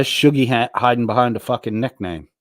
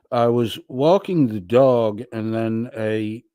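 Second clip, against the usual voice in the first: lightly voiced drunk chatter, slowing off; a hint of a sleepy drunk rambling; imitating a drunk chatter. Streamer imitating a drunk chatter for the chat, barely changed voice. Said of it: "This is my imitation of Hank".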